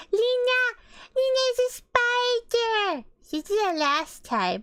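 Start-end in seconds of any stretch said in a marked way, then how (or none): 0.1-3.1 mock panic. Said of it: "She'd be like".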